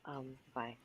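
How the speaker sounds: talking with a cold; sick, stuffy voice. Real, not acted. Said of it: "Please don't mind my sick voice".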